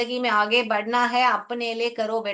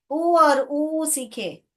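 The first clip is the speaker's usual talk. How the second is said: slow drill; 4 semitones higher, much slower than usual. Shown as a demonstration. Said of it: "teacher drills the sounds".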